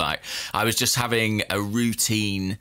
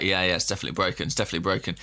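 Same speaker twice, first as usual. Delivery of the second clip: breezy certainty; 4 semitones lower, much faster than usual. Retold or imitated. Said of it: "they were like".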